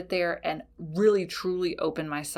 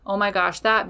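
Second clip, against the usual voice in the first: mock frustration; faster than usual. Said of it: "you get frustrated because then you're like".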